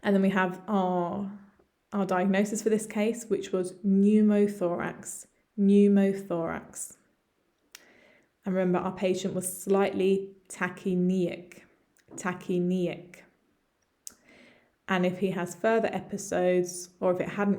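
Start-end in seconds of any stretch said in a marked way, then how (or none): 3.8-7.0 "pneumothorax" as NEW-mo-THOR-ax, repeated; pronunciation model. Shown as a demonstration. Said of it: "managed to pronounce those all correctly". 10.5-11.6 "tachypneic" said tacky-NEE-ik; pronunciation model. Shown as a demonstration. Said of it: "managed to pronounce those all correctly". 12.1-13.2 "tachypneic" slowly, tacky-NEE-ik; pronunciation model. Shown as a demonstration. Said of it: "managed to pronounce those all correctly".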